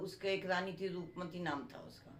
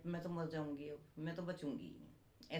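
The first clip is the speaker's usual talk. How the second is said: mild tearful plea, softer; a sick queen quietly giving up; understated weeping; tearful dying queen; 2 semitones lower, 6 dB quieter than usual. Acted. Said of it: "तो रोने लगी रानी".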